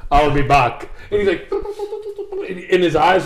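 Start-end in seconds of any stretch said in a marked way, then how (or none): 0.1-0.9 lightly imitated Terminator catchphrase, a bit louder; a hint of robotic action-hero voice; Arnold. Co-host quoting the Terminator's catchphrase, mock robot menace. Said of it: "I had to take Arnold".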